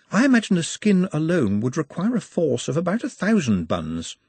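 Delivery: a lightly voiced calm, refined orc; polite orc. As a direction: speak like a gentle scholar. Nut's polite voice.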